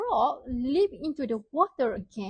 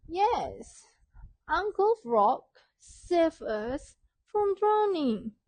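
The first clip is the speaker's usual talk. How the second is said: little mouse voice; 5 semitones higher, slower than usual. Acted. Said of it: "one of the little mice said".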